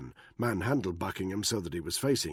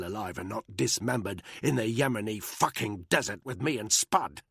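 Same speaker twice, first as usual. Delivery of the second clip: angry; 2 semitones higher, 3 dB louder than usual. Acted. Danny interrogating in rage.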